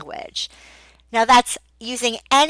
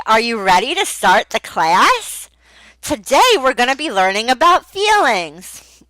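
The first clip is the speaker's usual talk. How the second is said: louder, long-winded classroom talk; wordy teacher; 4 dB louder than usual. Shown as a demonstration. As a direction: say too much to a child.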